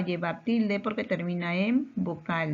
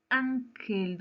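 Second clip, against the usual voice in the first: "Ángel" in two beats, higher, weight on "Án"; stressed syllable shown; 4 semitones higher than usual. Shown as a demonstration. Teacher asking where the word's force falls, stress on first syllable. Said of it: "¿Dónde lleva la mayor fuerza de voz?".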